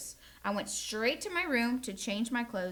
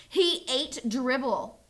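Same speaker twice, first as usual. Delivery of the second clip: slow, firm, slightly louder; insisting; 2 semitones higher, 5 dB louder, slower than usual. Acted. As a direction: insist to Mom, word by word. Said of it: "I insisted".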